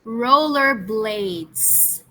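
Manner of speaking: Rollerblades stretched out very slowly, each syllable drawn; teacher modelling Rollerblades slowly for pupils; very slow model word. Shown as a demonstration. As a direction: draw Rollerblades out for the class to copy. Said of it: "repeat after me".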